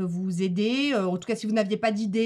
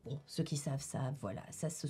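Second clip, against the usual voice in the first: aparté très bas; 8 semitones lower, 12 dB quieter than usual. Real, not acted. Insider aside to old fans.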